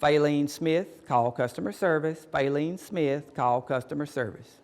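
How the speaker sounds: slow, even store announcement; drawn-out, orderly PA page; loudspeaker lady. Retold or imitated. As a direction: imitate a lady paging customer service. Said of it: "hear the lady on the loudspeaker".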